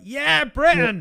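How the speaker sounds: high, loud fan cheer; triumphant chant. Retold or imitated. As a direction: whoop for your hero. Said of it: "We were like".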